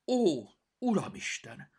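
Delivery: a hammed-up oh my god; mock dramatic cry. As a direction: throw up your paws in theatrical horror. Cat's mock dramatic lament.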